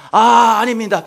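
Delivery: high, loud, stammered mock protest; flustered denial. Startled soldier answering the furious emperor, acted flustered denial. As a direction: blurt it out like a panicked soldier.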